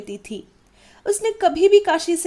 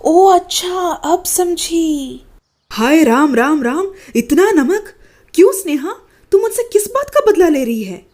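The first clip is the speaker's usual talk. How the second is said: hammed-up outrage; 4 dB louder than usual. Mother-in-law fakes outrage over salt.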